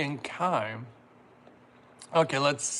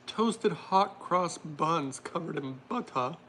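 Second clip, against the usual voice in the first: slow, drawn-out mock-British; playful put-on British; attempted British accent; slower than usual. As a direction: read it slowly in a bad British accent. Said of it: "I can't do my very British accent".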